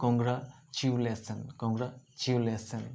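কংগ্রাচুলেশন said slowly, every syllable clear; slow clear demo. Shown as a demonstration. Teacher revealing the finished word slowly to students. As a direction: draw the word out for young learners. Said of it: "সেখান থেকে কি হয়ে যাবে?".

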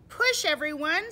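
high, loud call to everyone; bossy storybook pig at full voice; rallying pig. Acted. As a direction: shout the team into pushing. Pig rallies the others.

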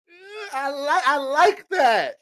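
very high, slow Baltimore accent impression. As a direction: drag it out like the Baltimore guy. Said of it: "them Baltimore niggas".

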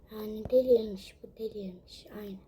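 muttered whispered complaint. Real, not acted. Wife complaining about husband, whispered disbelief.

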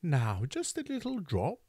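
a lightly voiced nurse, gently persuading; persuasively. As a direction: sweet-talk him into it. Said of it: "said Missus Mann persuasively".

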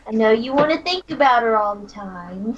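mildly sarcastic jab; a touch of sarcasm in an in-character line. Acted. Teasing him about thinking of her all the time, sarcastic. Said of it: "she says sarcastically".

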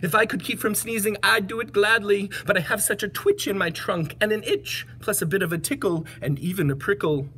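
a touch of sorrow; lightly voiced apologetic elephant; sad elephant. Elephant explains his itchy trunk, mildly sad voice. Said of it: "said the elephant sadly".

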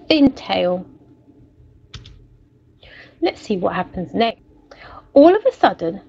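lively storybook narration for a class; story reading. A narrator's reading. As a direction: read it like a picture book to children. Teacher reads story aloud.

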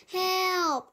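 high cry for help; young reader's high shrieked Help. A narrator's reading. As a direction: call Help out high from the hole. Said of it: "I shrieked".

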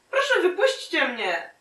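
high-pitched mock plea; pleading captive. Captive asks to be let go, pleading. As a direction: beg in a put-on high voice.

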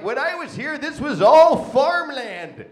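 put-on slow creaky old-timer drawl. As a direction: play it like a grumpy old-timer. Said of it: "and I'm just like".

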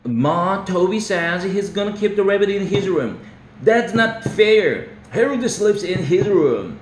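put-on high, loud boy complaining to Ma; whiny complaint. Pete tattling to his mother, high and loud. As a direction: tattle on your brother, loud.

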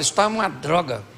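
low, contained grumble; dominant spouse's complaint. Acted. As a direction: complain firmly without raising your voice. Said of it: "O dominante fala".

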